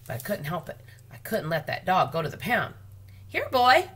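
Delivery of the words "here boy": high, loud call with a rise; calling a dog. A narrator's reading. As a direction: call him over, much louder and higher. Calling the dog across store.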